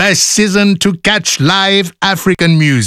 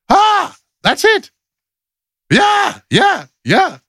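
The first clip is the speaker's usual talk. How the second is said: excited; slower than usual. Real, not acted. Joyful high exclamation.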